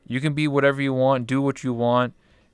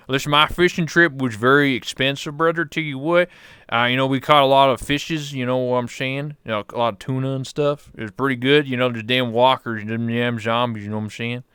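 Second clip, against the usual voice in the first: lightly voiced hillbilly, a bit louder; Kenny K Kona; 3 dB louder than usual. Kenny character returns, fishing story.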